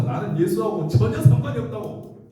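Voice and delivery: acted angry disavowal, pitched high; heated, emphatic mock denial; cursing denial. Peter denying Jesus to the accuser, angry and high. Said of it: "막 욕하면서 저주하면서".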